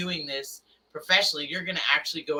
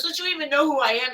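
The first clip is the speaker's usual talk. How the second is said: mock offended Robbie; 10 semitones higher than usual. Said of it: "He goes".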